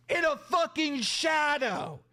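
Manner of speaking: exasperated, insulting rant; heated scolding that keeps rolling; real anger. Real, not acted. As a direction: tear into them with punched swear words. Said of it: "I'm mad".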